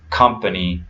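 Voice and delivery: "company" with a schwa in the middle; weak middle vowel in "company"; reduced vowel. Shown as a demonstration. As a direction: say "company" as CUM-puh-nee. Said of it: "has this reduced vowel sound".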